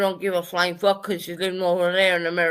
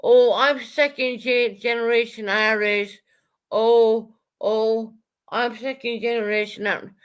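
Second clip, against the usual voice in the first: mock her boast of being "second generation Irish"; mocking imitation. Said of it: "You're, you".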